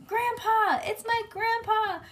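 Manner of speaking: put-on very high, joyful little-girl shout; excited shout. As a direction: squeal it out to a beloved grandpa. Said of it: "I shouted".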